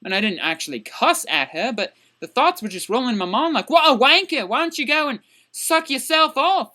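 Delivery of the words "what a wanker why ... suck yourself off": pitched-up indignant cursing; mock angry insult. Student silently cussing out the teacher, mock-angry. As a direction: hurl an imagined insult, high and punchy.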